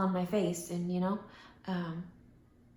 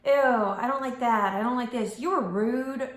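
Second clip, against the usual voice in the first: disgusted complaint; 4 semitones higher, 5 dB louder than usual. Retold or imitated. Mocking people who complain.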